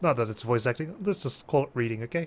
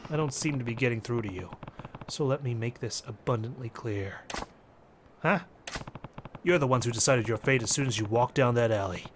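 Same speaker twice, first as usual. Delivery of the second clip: resolute fighter; 3 semitones lower than usual. Acted. Fighter warning the mobsters, low-key and resolute. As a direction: lay it out in a subdued fighter's voice.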